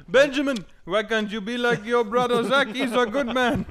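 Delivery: put-on high, slow nagging old Jewish parent; old Jewish man voice. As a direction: scold Benjamin like an old Jewish elder. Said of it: "old man Jewish voice".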